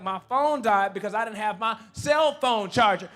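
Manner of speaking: loud exasperated yell; frustrated shout. Retold or imitated. Husband snapping back at wife about his dead phone, shouting. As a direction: let it blow up at her.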